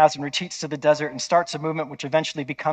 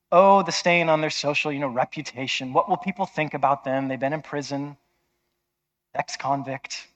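ordinary delivery

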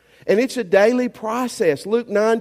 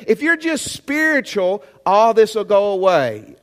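mock objection; 3 semitones higher, 4 dB louder than usual. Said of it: "some of you are saying".

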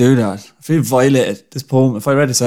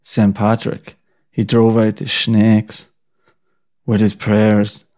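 slow mock recital; much slower than usual. Shown as a demonstration. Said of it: "The start of it goes".

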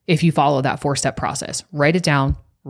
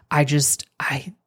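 searching for words; slower than usual. Retold or imitated. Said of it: "She's trying to find the words".

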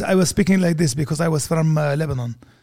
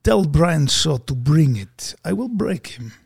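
put-on slow, heavy Georgian-accented threat; mock Georgian accent; slower than usual. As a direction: play a Georgian strongman, slowly. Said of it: "that's a good Georgian accent".

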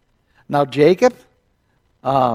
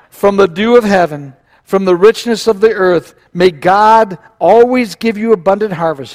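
raised, declamatory blessing; proclaimed blessing; 4 semitones higher, 5 dB louder than usual. A narrator's reading. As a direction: pronounce a father's blessing, higher and louder. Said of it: "Here comes the blessing".

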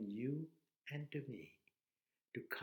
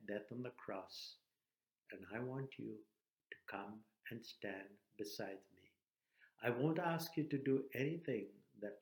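understated, lower-pitched invitation with pauses; Jesus calling; 3 semitones lower than usual. Acted. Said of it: "And he calls you".

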